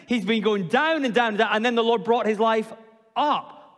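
down sinking, up lifting on the last word; down then up. Shown as a demonstration. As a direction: let it sink then rise on up. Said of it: "You see the difference?".

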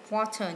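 water stressed on the first syllable, WA-ter. Shown as a demonstration. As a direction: put the weight on WA in water. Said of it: "nhấn âm một".

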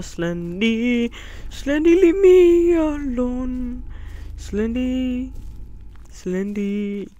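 slow drawn-out pleading. Acted. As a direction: beg the monster slowly. Pleading with Slender Man.

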